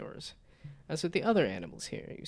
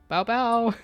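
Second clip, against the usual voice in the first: much higher, louder cutesy bow bow; anime dog bark; 10 semitones higher, 10 dB louder than usual. Shown as a demonstration. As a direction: yip it like an anime puppy. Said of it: "that's just Hololive".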